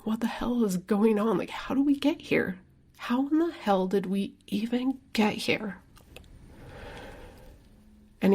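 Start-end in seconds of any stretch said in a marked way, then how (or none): 0.1-5.8 retold tearful whisper. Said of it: "just bawling my eyes out".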